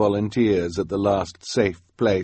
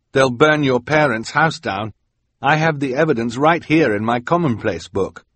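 higher, louder, pressing warning; urgent young boy; 5 semitones higher, 4 dB louder than usual. Acted. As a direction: warn her urgently, voice raised. Quigley urgently warns Carmelita.

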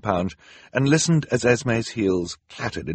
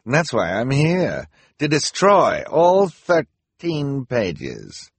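higher, louder, gloating snarl, slowing to a crawl; snarling villain; 6 semitones higher, 4 dB louder, much slower than usual. A narrator's reading. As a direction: draw out the threat with menace. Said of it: "she snarled".

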